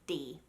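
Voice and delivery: crisp D off the tongue tip; clean D. Shown as a demonstration. Coach isolates the sound for learners, clean D. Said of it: "it's just a really clean sound".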